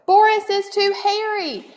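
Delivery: high, squeaky mouse voice; squeaky mouse yell. Acted. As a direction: squeal it like a second little mouse. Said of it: "yelled another".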